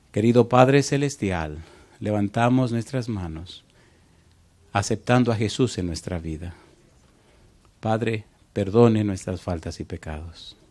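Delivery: preacher leading a prayer. Real, not acted. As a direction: pray aloud for the congregation. Leads congregation in prayer.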